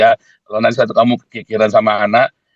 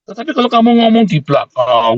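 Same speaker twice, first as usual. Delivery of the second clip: preacher's raised accusation; emphatic condemnation; 10 semitones higher than usual. Real, not acted. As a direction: call them out.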